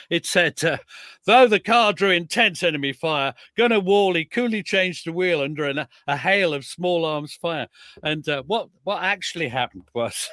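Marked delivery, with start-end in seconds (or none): 1.3-7.7 mock official history. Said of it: "the regimental history, it said".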